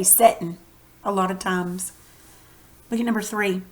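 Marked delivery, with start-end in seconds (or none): 0.0-0.6 "settin'" said like setting, with a short e and a dropped g; Texas pronunciation. Shown as a demonstration. Teacher showing students how Texans say it, slightly louder. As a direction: say "settin'" the Texas way, not sitting. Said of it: "We say settin'".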